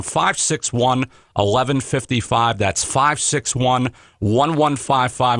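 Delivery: slow, deliberate digits; slow number read. Real, not acted. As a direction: spell out the number slowly for listeners. Host slowly reads out phone number.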